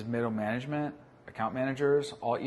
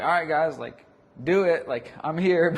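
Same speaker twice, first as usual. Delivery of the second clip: half-hearted boss; 5 semitones higher, 9 dB louder than usual. Retold or imitated. Mocking a half-hearted leader.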